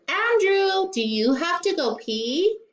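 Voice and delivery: high singsong call of his name; chorus of parents asking sweetly; sing-song grown-ups. A narrator's reading. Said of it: "all said".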